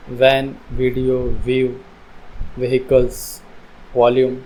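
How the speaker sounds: spaced example words, each starting with व as in वैन; V sound shown. Shown as a demonstration. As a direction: model the opening V in वैन, वीडियो, व्यू. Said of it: "वी की sound निकलती है व". (वैन, वीडियो में व की साफ़ आवाज़)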